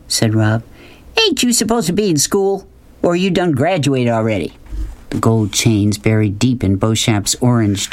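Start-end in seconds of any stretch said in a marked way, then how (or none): 1.2-4.5 put-on higher Southern good-old-boy patter; lightly voiced big talker; folksy blustering man. A narrator's reading. Man jokes with sweeping boy, folksy bluster.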